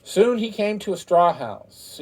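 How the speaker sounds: ordinary delivery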